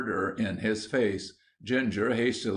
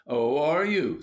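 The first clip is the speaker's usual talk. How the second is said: higher, challenging retort; stern; 5 semitones higher, 4 dB louder than usual. A narrator's reading. William challenges Ginger going home, stern. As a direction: pull him up sharply. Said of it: "said William sternly".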